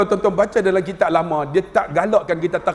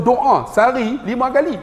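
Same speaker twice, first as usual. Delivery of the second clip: normal talking voice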